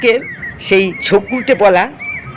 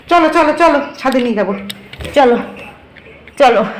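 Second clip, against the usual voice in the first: coaxing; 4 semitones higher, faster than usual. Real, not acted. Coaxing the pet upstairs.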